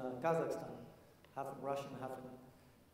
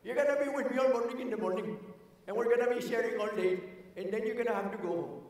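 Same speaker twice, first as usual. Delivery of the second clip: put-on higher, louder wise old Indian grandfather; Mahatma Gandhi impression; 6 semitones higher, 4 dB louder than usual. Speaker imitates Gandhi telling grandson his plans. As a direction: play the gentle elder instructing his grandson. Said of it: "This is my impersonation of Mahatma Gandhi".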